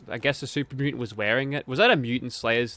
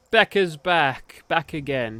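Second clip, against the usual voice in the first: announcing return; 3 semitones higher, slower than usual. Acted. Gamer announcing his character is back, drawn out. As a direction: draw it out like a grand entrance.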